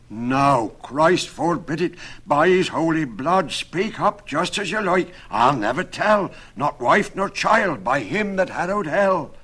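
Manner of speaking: high, loud, emphatic oath-taking; agitated rustic carpenter protesting loudly; frightened carpenter swearing. Acted. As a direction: swear fervently in alarm.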